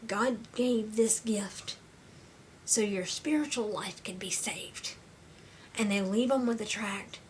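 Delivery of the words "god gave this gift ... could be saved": spaced-out, deliberate phrasing; slow, measured quoted message. Retold or imitated. Volunteers telling a patient about the gift, slow and deliberate. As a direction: deliver the message slowly, pausing between phrases. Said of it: "to tell them".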